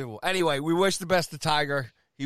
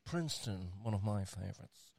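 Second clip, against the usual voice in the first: creepy announcer voice. Acted. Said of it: "I'm trying to get us from this voice now".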